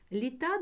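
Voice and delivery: "Літа" with the stress on the final А; teacher marking where the stress falls in "Літа". Shown as a demonstration. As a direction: lean on the last syllable of "Літа". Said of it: "ставимо наголос на А".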